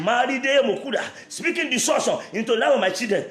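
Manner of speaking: chant-like repeated prayer lines, rising in pitch; fervent preacher's declamation; insistent prayer. Real, not acted. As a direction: press each phrase harder as you repeat it. Leads prayer at full force.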